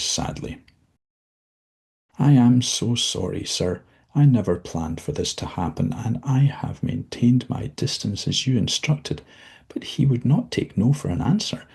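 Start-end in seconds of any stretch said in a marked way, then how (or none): 2.2-11.7 higher, shaken apology; tearful confession. Acted. Dozzie tearfully confesses her romance to the devil. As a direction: confess through rising distress.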